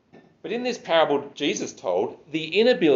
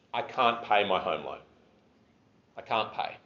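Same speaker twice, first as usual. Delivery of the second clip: softer and softer, nearly whispered begging; a pleading near-whisper to the bank; desperate plea; 4 semitones lower, 6 dB quieter than usual. Pretend. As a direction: plead quietly with the bank, giving up.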